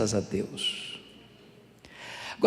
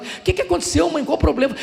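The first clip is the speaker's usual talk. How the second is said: concerned question; 12 semitones higher, 5 dB louder, faster than usual. Retold or imitated. Pastor asks crying mother.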